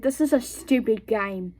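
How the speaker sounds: put-on British accent standing in for German; lightly attempted British accent. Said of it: "Doing a British accent because I can't do a German accent".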